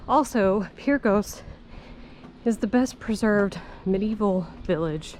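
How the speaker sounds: panting between words after the climb; breathless, gasping for air; out of breath. Real, not acted. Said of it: "Sorry, I'm out of breath".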